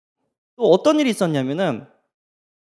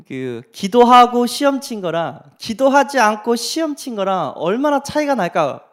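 normal talking voice

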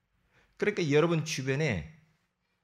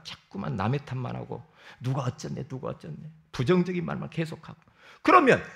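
ordinary talk

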